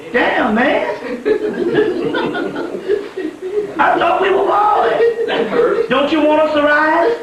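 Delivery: high laughing cry of mock betrayal, voice cracking up; laughing protest. Telling the gods they were boys, high laughing mock hurt. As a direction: laugh through it like a friend let down.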